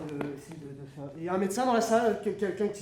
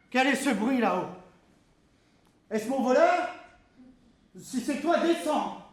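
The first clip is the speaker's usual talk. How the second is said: calling out; 3 semitones higher, 3 dB louder than usual. Acted. Calling up to thief.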